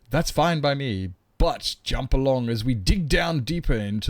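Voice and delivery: a touch of a theatrical game-show host; grand host voice. Pretend. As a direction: announce yourself like a pompous presenter. Mock grand host introduction.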